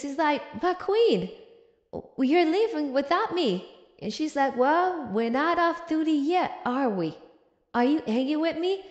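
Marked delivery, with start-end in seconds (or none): 0.6-3.5 higher, hammed-up bewildered plea; confused. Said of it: "Henry's so confused". 4.6-8.8 mildly feigned nonchalance; passive-aggressive. Acted. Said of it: "my favorite passive-aggressive move".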